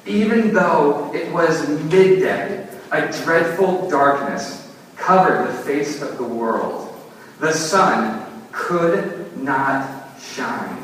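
slow, solemn storybook reading; dramatic reading. Acted. Pastor reads the storybook to his congregation, slow and solemn. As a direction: read it slowly and gravely. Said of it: "Listen to how the Jesus Storybook Bible puts it".

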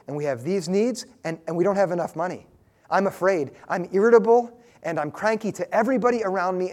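an anxious believer praying, lightly voiced; sample prayer. Shown as a demonstration. Preacher showing the congregation a prayer, lightly acted worry. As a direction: pour out money worries to God, mildly pleading. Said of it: "let me show you what this looks like".

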